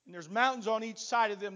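ordinary delivery

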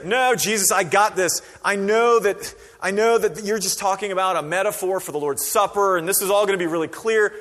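mock know-it-all. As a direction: brag like you've got it all figured out. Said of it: "doesn't say".

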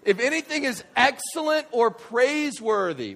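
high, ringing-out verse reading; emphatic proclamation. Real, not acted. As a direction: proclaim the verse with full force.

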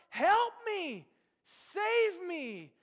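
high, loud panicked yelling; hammed-up screams of someone sure he's burning; frantic shout for help. Preacher acts out Ricky Bobby screaming for help. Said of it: "he cries out".

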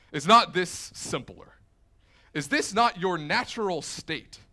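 commanding Loki. Retold or imitated. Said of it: "and he says".

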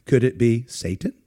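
lightly voiced comedy catchphrase, rising at the end; a hint of a sketch-show church lady. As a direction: ask it as a teasing mock question. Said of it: "the church lady routine that he did".

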